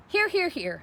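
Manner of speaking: high, loud gander calling thrice; honking gander. A narrator's reading. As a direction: honk each here. Gander answers roll call.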